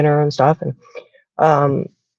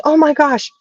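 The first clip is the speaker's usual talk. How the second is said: much higher delighted gasp of words; gushing stranger; 10 semitones higher than usual. Retold or imitated. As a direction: imitate the lady's excited exclaim. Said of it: "the lady goes".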